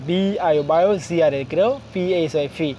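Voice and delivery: বায়োগ্রাফি spelled out in separate chunks; broken into syllables. Shown as a demonstration. Teacher breaking down a long word for learners, syllable by syllable. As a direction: spell and sound each piece in turn. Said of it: "আমরা ভেঙে ভেঙে".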